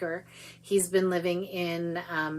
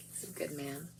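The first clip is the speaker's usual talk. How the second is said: Irish accent; 3 semitones lower, 13 dB quieter than usual. Shown as a demonstration. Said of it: "you have to say with an Irish accent".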